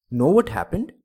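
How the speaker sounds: high, loud exclaimed question; crying out. A narrator's reading. Blind man answers the ribbon seller, crying out. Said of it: "cried the blind man".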